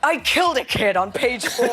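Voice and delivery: a hint of matter-of-fact writer; deadpan husband. Husband reporting his horror script, lightly voiced and casual. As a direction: state it casually, laughing a little. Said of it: "he was like".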